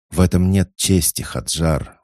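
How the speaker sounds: loud outraged protest; indignant. A narrator's reading. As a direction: burst out in indignation. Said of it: "возмутилась Тенет".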